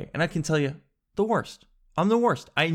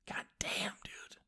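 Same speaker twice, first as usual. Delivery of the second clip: whispered, breath-only exasperation; under-the-breath cursing; hushed disbelief; 17 dB quieter, slower than usual. Real, not acted. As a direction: whisper it in dismay. Reacting to needing an oil change.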